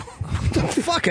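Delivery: high, slow, breathless gasp of shock; real fright, words breathed out high and slow; startled. Real, not acted. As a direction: jump at the sudden noise. Startled by a loud sneeze.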